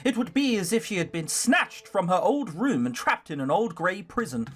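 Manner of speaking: measured storybook reading; story narration. A narrator's reading. Player reading Sarah's story aloud, story narration. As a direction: read the story out evenly.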